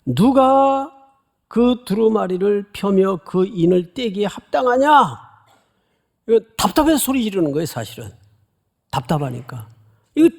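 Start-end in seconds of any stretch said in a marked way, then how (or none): 0.0-5.2 raised, higher call of a mighty angel; angel crying out. Retold or imitated. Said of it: "큰 음성으로 소리를 지릅니다".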